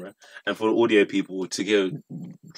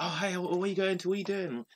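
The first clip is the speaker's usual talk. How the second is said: pushy reporter; 9 semitones higher, 8 dB quieter than usual. Retold or imitated. Camera crew pestering famous person.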